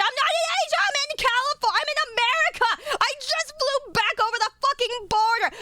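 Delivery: shrieking, high, raging yells; furious screaming rant. Real, not acted. Streamer raging at chat over Asia-only release, screaming. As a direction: scream out the fury, full volume.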